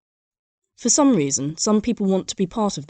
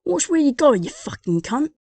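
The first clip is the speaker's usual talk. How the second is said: mock angry Brit; 9 semitones higher than usual. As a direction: bark it at the stranger. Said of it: "I would have also accepted".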